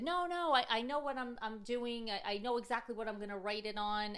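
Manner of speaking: put-on high, fast eager kid voice; insistent daughter. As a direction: jump in confidently like a child. Mother voicing insistent daughter.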